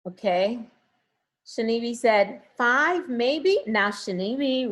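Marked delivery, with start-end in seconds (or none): 2.6-3.6 imitating a timid, questioning reply; unsure answer. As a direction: echo the student's doubtful guess. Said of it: "we need to work on the confidence level".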